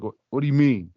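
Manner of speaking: mildly indignant retold question; mock indignant. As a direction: act a touch affronted. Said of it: "he gets all indignant".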